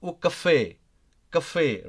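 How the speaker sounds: "café" with the weight on the last syllable, ca-FÉ; stressed final vowel. Shown as a demonstration. Teacher showing learners stressed endings, "café" stressed on its final vowel. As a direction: land firmly on the end of "café". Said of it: "it goes a, a different way".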